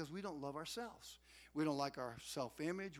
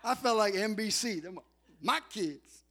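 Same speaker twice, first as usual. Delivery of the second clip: mock announcer; 3 semitones higher, 11 dB louder than usual. Mock sportscaster boast.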